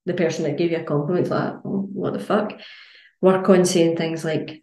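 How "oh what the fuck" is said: whispered, taken aback; a breathy stunned aside; baffled whisper. Retold or imitated. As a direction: mutter it like you've been snubbed. Complimenter's baffled reaction.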